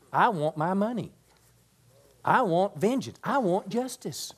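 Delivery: high-pitched, insistent mock complaint; mock demanding. Objector to the Bible teaching insisting on payback, mock demanding.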